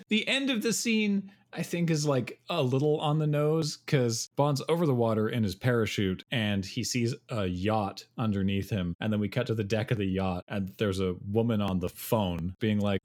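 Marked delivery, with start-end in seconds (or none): none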